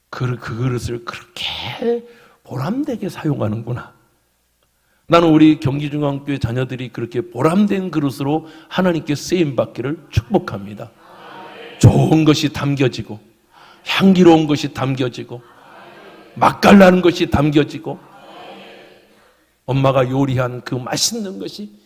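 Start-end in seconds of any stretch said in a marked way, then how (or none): 0.1-3.9 hushed whisper. Acted. God's voice praising the user. 11.8-18.0 building emphasis. Real, not acted. Building preaching list.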